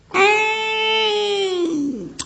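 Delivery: 死而复生，高声大喊好香; sit bolt upright and bellow it; revived shout. Acted. 复活老道大喊好香. (刚活过来的老道，高亢地大喊)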